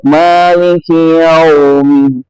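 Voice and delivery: slow, gently drawn-out Quran recitation; gentle recitation. Shown as a demonstration. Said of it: "dibaca dengan lembut".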